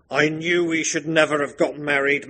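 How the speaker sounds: a mock brooding regret; darker, queerer husband. Maxime laments his marriage, hammed-up dark voice. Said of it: "his voice turning even darker and queerer".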